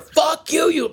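very high mock shout; retold scream. Driver screaming back at the moped rider, imitated fury. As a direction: act out an escalating furious yell. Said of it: "screams at him even more".

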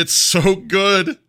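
high, loud, drawn-out rave; raving. Real, not acted. Husband raving about the spicy chicken sandwich, real excitement. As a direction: gush over it, stretching the words right out.

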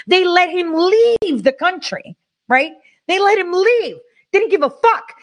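furious disbelief at letting him go; angry outburst. Real, not acted. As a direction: let the outrage climb up in pitch. Angry rant about spy case.

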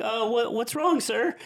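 put-on high, innocent little-kid voice; mock scared kid. Scared kid playing innocent to the adult. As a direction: play dumb like a caught kid. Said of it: "They're fucking terrified".

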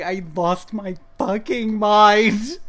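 slow. Real, not acted. Wheezing laughter.

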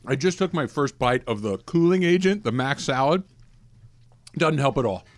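talking with a mouthful; mouth full. Real, not acted. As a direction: speak through a bite of food. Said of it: "I'm gonna talk with my mouth full".

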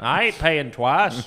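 slow Southern refusal; drawn-out, stubborn mock complaint; indignant barbecue customer. Prank caller refusing a restaurant bill, indignant. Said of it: "call various North Carolina barbecue establishments".

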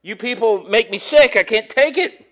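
lightly voiced exasperated God; a hint of God losing patience; preacher voicing God fed up with his people.

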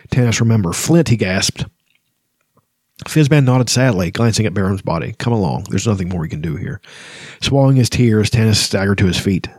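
even, measured reading of a sad scene; story narration. A narrator's reading. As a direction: read it like a storyteller, letting the grief sit. Reads novel passage aloud.

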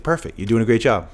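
high, loud mock coach praise; coach's praise. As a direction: imitate the coach cheering him on. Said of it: "And he's like".

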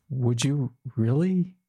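drawn-out, hopeful asking; tentative question. Retold or imitated. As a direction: ask it slowly and carefully, voice lifting. First asking of the big question.

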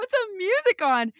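put-on clumsy high, loud French accent; hammed-up French accent, mock; bad French accent. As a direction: try a French accent and miss it. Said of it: "I don't know how to do a French accent".

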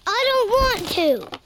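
put-on upset child's protest. Boy refusing a birthday present, upset. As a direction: protest with the pitch jumping up.

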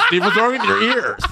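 high laughing voice. Real, not acted. Laughing about delay.

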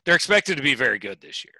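deadpan, keeping a straight face. Acted. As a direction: say it with a poker face. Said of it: "say this with this straight face".

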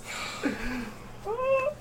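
thin high squeal of a laugh; helpless high-pitched laughing. Real, not acted. Reacts to commentator's line.

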